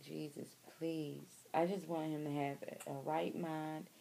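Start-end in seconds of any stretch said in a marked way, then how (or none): 0.0-1.4 soft, slow plea to Jesus; praying softly and slowly for her husband; hushed prayer. Retold or imitated. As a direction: murmur it like a quiet prayer.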